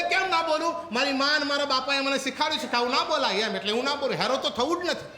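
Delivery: put-on boy's defiant reply; stubborn child. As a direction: argue back like a small boy. Boy argues with the sister.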